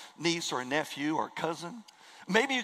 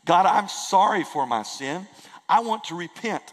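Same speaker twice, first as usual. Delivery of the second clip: model prayer; 5 dB louder than usual. Shown as a demonstration. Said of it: "where you simply say".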